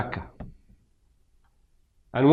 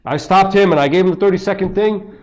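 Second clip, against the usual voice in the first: louder, higher smug retelling; mocking a zealot's story, louder; mock zealous preacher; 5 semitones higher, 4 dB louder than usual. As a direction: parody a self-satisfied preacher.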